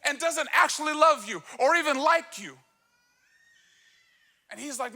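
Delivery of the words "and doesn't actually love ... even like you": worked-up preaching. Real, not acted. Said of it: "I just get worked up".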